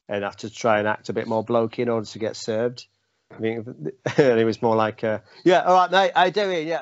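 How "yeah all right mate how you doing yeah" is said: higher, louder mock Cockney bloke; Cockney accent. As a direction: put on a blokey Cockney accent to get served. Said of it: "I don't know why I went Cockney".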